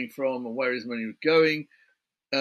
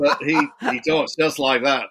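laughing; 7 dB louder than usual. Real, not acted. Laughing while describing cop's talk.

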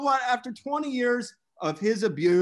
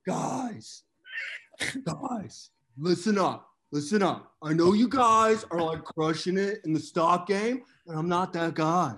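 Sam Tripoli impression. Host boasting to the guys about Bitcoin, a brash cocky Sam voice that builds up. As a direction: brag like a cocky stock picker who gets more fired up. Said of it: "That was the best fucking Sam Tripoli impression".

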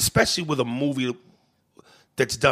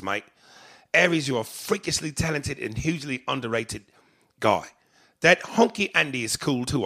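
lightly put-on English accent; a hint of English accent. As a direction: read the email as an English listener. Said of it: "feel free to read this in an English accent".

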